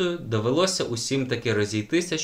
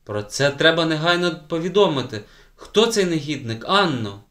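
higher and louder, urgent demand; indignant; 5 semitones higher, 5 dB louder than usual. A narrator's reading. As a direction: press the child for the name. Outraged teacher demands name. (обурено й наполегливо)

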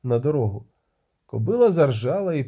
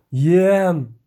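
groaned call; 3 semitones higher, 6 dB louder than usual. A narrator's reading. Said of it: "простогнав відьмак".

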